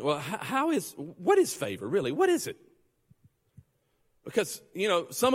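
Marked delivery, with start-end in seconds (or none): 0.0-2.6 rising to a high questioning squeak; he wonders aloud what favor really is; puzzled wondering. Retold or imitated. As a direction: ask it more and more amazed. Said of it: "I think".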